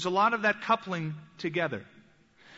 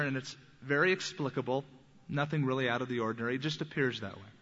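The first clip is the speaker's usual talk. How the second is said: skeptic's dismissal. Retold or imitated. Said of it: "explained away by natural occurrences".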